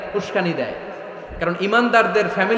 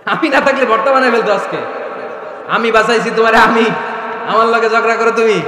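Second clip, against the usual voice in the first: playful boasting; 3 semitones higher, 5 dB louder than usual. Acted. Acting husband's playful boast to wife.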